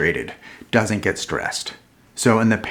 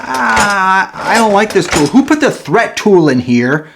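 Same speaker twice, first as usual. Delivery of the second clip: annoyed disgust; 10 semitones higher, 7 dB louder than usual. Acted. Dislikes the tool he pulled.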